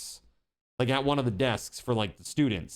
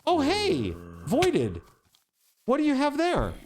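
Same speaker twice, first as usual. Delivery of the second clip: imitating the teacher; 9 semitones higher than usual. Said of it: "the teacher then goes".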